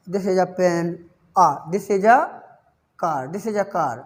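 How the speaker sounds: low-pitched, "a" said as ah; casual low examples, "a" as ah without weight; unstressed A. Shown as a demonstration. Teacher giving everyday examples, unstressed "a" as ah. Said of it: "ऐसे बोल देते हैं".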